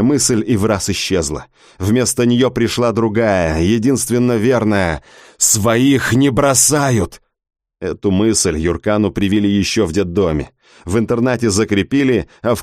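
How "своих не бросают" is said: slow resolve. Acted. Inner resolve.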